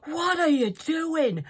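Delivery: the cat complaining about the cape; indignant cat. Retold or imitated. Cat scolding whoever dumped the cape on it, indignant. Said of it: "it's gone".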